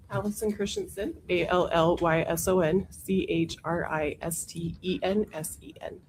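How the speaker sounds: hoarse, losing her voice; hoarse from a cold. Real, not acted. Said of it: "have lost my voice over the weekend".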